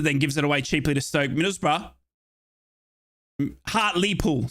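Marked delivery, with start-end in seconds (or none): 3.7-4.5 "Hartlepool" as HART-lee-pool; corrected pronunciation. Shown as a demonstration. Commentator fixing his own slip, "Hartlepool" as HART-lee-pool. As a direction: sound out "Hartlepool" slowly, with a clear LEE in the middle. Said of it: "sorry. What did I say?".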